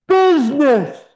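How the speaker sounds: high, loud anguished ghost cry; unearthly voice. Acted. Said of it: "cried the ghost".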